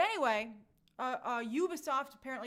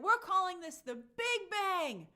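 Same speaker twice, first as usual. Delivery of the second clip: lightly grand, slow proclamation; a touch of mock grandeur, drawn out and raised; announcement mimicry; 4 semitones higher, 4 dB louder, slower than usual. Host quotes Lucasfilm's announcement, slow, lightly mock-grand delivery. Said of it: "And they said".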